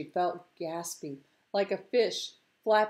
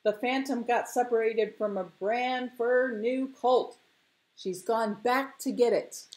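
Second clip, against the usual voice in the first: higher, excited announcement; fisherman calling news; 4 semitones higher than usual. Acted. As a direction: call it out to everyone waiting. Fisherman calls news to crowd.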